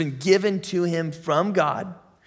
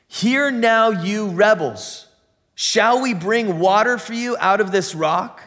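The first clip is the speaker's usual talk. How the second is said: raised, slowed rebuke of the rebels; angry Moses; 4 semitones higher, 3 dB louder than usual. Acted. Moses rebuking the grumbling crowd, a raised angry voice.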